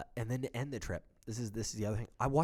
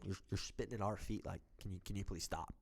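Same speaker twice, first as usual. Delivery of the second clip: polite request; 4 semitones lower, 9 dB quieter than usual. Retold or imitated. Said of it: "We tell him".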